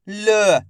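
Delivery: "ल" as a bare l with a short schwa; half-sounded last letter. Shown as a demonstration. Teacher sounding the last letter, "ल" only half voiced. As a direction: say "ल" on its own, without a full aa. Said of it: "last वाले अक्षर का उच्चारण आधा करना है".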